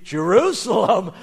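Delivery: loud burst of surprise; amazed exclamation. Acted. Young donkey's heart skips at the news, amazed. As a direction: blurt it out in astonishment.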